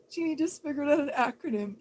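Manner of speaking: Jeannie just figured out an acronym shouted fast and loud, voice cracking; loud, rushed, overexcited announcement; excited shout. Shown as a demonstration. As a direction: yell it out fast in mock excitement. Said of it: "Let's all get excited".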